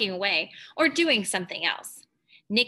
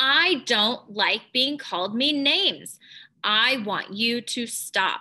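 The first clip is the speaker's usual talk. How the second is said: assertive, firm, still polite and respectful voice; 2 semitones higher than usual. Narrating a story, voicing a girl standing up to name-calling, firm, respectful voice. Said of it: "she's using a firm voice".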